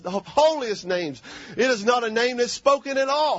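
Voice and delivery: impassioned pulpit preaching. Real, not acted. Preacher reminding congregation who God is, preaching. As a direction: declare it to the congregation with punched key words.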